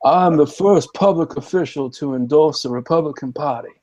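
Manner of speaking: sophisticated Southern politician's accent, R's dropped; Henry McMaster. Shown as a demonstration. Governor boasting of an endorsement, imitated sophisticated Southern accent. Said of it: "This is how he talks".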